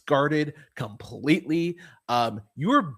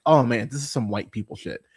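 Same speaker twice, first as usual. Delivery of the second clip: amused mock thought; 4 dB louder than usual. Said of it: "I was like".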